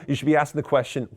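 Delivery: normal talking voice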